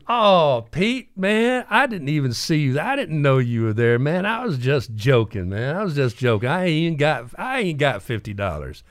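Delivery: high, pleading, rushed apology; scared backpedaling. Retold or imitated. Maxie begs Pete, caught joking about him, in a high scared voice. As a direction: squeal out excuses to the big man.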